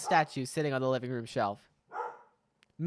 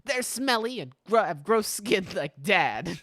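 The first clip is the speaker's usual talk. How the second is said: lightly voiced, a touch higher, rebellious girl; a hint of a sulky teenage daughter; defiant daughter; 3 semitones higher, 4 dB louder than usual. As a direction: toss it off like a stubborn kid. Min answers her parents.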